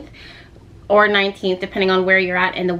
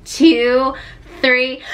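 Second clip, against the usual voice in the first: rising countdown; 4 semitones higher, 3 dB louder, much slower than usual. Pretend. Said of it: "let's just do it. Ready?".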